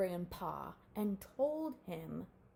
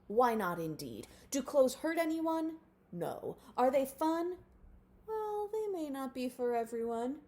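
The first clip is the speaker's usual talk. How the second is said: loud, grand proclamation; proclaiming elder; 4 semitones higher, 7 dB louder than usual. A narrator's reading. Grandpa addresses the colony, loud grand speech. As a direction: address the crowd like a king. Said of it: "and proclaimed".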